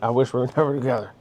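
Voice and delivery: quick, laughing through "never"; laughing quote. Retold or imitated. Speaker admitting he meant it, laughing. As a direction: toss it off fast with a laugh. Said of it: "I really meant".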